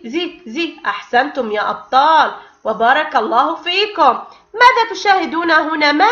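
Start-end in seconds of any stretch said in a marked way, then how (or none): 0.0-0.8 soft repeated زي with buzzing z; whisper-soft زي زي, sounding out the letter; letter sound demo. Shown as a demonstration. Teacher sounding out zay with kasra for pupils, softly. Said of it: "وصوت حرف الزاي مع حركة الكسرة".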